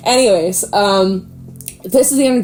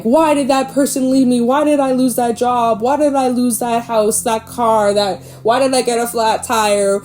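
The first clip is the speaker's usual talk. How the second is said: 1 mock self-pity; 4 semitones higher than usual. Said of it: "You're like".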